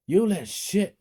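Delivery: loud high furious yell; angry shout. A narrator's reading. Father yelling at son who got sick, furious. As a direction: yell it at him in rage. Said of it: "my dad said".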